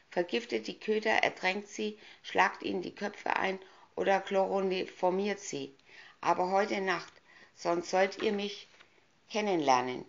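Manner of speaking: evil queen. Acted. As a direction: threaten like a cruel witch. Villainess orders killing.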